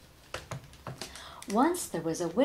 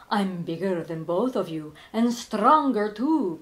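boastful vampire; 5 dB louder than usual. Acted. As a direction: brag it, puffed up. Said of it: "boasted the vampire".

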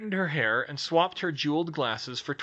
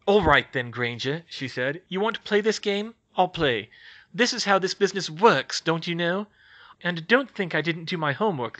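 louder, sharp sly reporter; glaring challenge; 4 semitones higher, 4 dB louder than usual. Acted. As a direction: Skeeter squaring up to Hermione. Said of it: "leaned forward and glared".

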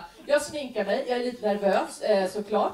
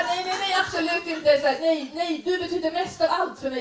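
higher, eager reassuring mother; reassuring mom; 6 semitones higher than usual. Retold or imitated. Mother comforting upset daughter, high reassuring. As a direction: rush to comfort the crying kid.

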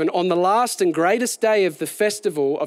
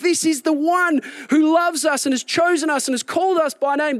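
fiery preaching; 8 semitones higher than usual. Acted. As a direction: lift the crowd as you paint the scene. Preacher building to a climax.

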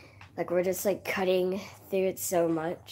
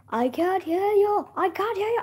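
friend who can't hear; 13 semitones higher, 7 dB louder than usual. Retold or imitated. Friend on the call who can't hear him, mimicked high and loud. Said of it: "He's like".

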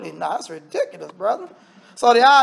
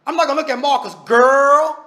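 mocking girl; 3 semitones higher, 4 dB louder than usual. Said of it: "that's just something we say".

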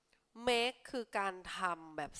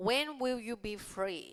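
slow, careful read-aloud; slow teacher read-aloud; 3 semitones higher, much slower than usual. Shown as a demonstration. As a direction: spell the question out slowly for learners. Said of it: "reads option slowly".

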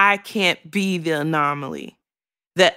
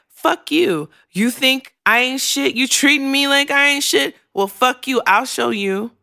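higher-pitched mock defiance; defiant retort; 6 semitones higher than usual. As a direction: throw it back at them, half-mocking. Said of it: "it's like".

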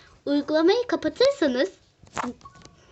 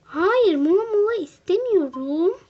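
annoyed outburst; 5 semitones higher than usual. Real, not acted. Refusing the ad pop-up.

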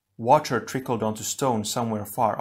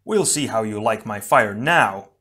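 gritted-teeth anger; 5 dB louder than usual. Acted. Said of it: "Tahu gritted his teeth".

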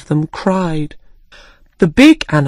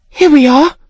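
higher, cheerful presenting line; bright announcement; 10 semitones higher, 4 dB louder than usual. A narrator's reading. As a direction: present it with a lift. Alice hands out sweets.

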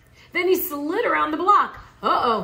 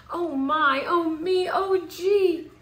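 put-on rising, louder panicked child; a child crying out in alarm at a missing tree; 6 semitones higher, 5 dB louder, slower than usual. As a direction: build up to an upset cry to Pop. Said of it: "cried Junior".

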